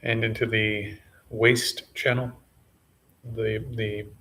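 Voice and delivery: sparse, measured meditation cues with long pauses; name each body part calmly, then leave silence; unhurried meditation guide, slightly subdued; guided body scan. Real, not acted.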